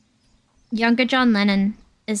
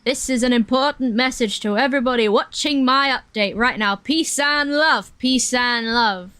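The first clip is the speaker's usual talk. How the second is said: Impression of a famous musician. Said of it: "he says something like".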